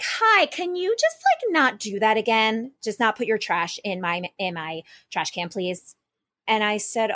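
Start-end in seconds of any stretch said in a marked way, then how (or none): 0.0-6.0 mock sweet high request; a hint of a polite but firm neighbor; lightly voiced neighbor asking nicely; neighbor's request. Neighbor voiced in retold story.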